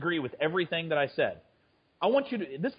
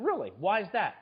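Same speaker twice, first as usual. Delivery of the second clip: surprised; 3 semitones higher than usual. Retold or imitated. His surprised reply, retold.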